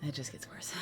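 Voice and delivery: whispered aside. Real, not acted. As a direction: lean in and whisper the gripe. Whispered aside while gaming.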